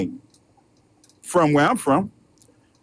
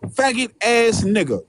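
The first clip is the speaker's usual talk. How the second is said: drawn-out slow repeat of the insult; lightly voiced angry player; imitating Rose; slower than usual. Comic repeating the player's insult, slow and drawn out. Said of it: "when he said it".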